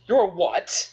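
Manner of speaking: high-pitched, stunned question; incredulous spit-take reaction. Acted. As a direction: act out disbelief, pitch jumping up. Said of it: "I'm gonna do a spit take".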